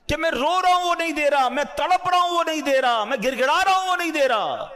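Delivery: preacher acting a believer wailing that his prayers go unanswered. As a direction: cry out each line as if begging in tears. Voicing a weeping, begging believer.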